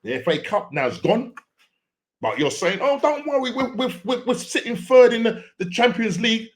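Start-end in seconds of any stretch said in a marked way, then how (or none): 2.8-6.5 high mocking fan voice; mimicking deluded fans, pitched up; mock reassurance. Mocking fans' excuses.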